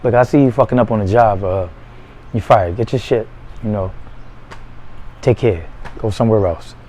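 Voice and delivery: cool, quiet firing; calm boss. Shown as a demonstration. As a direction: let him go without raising your voice. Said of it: "All I gotta do is say".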